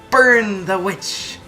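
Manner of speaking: high, loud, drawn-out mock cry; hammed-up "burn the witch" yell; mock witch-hunt cry. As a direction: call it out like a pretend mob. Acted cry in character summary.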